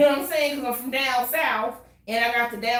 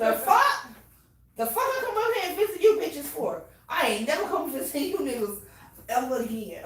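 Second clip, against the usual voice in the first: mock outraged rant; 4 semitones higher than usual. Mock rant at Philly family.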